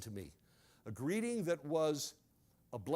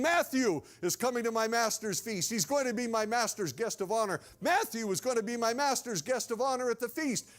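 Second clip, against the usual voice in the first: raised, mildly shouted announcement; shouting herald; 4 semitones higher, 3 dB louder than usual. Acted. Servant announces the honored guest to the village, half shouting. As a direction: call it out through the village, a touch higher. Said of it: "and he's shouting".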